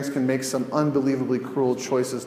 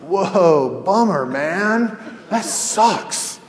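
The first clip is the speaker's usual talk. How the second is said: higher, casual surfer-dude shrug; careless dude; 5 semitones higher, 3 dB louder, much slower than usual. Acted. Uncaring bus driver to the man he hit, laid-back dude voice. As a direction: toss it off like a bus driver who couldn't care less. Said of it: "This time he does one of these".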